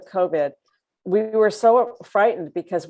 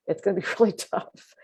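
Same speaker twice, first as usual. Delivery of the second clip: laughing whisper; 5 dB quieter than usual. Real, not acted.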